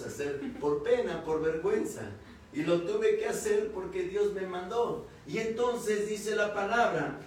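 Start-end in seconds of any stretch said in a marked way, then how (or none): 2.5-7.2 raised, emphatic sermon delivery; preaching. Real, not acted. Preacher testifying to the congregation about obeying God, emphatic preaching.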